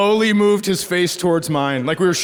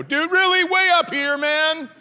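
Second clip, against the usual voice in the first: incredulous; 8 semitones higher than usual. Retold or imitated. Confronting neighbor about flag.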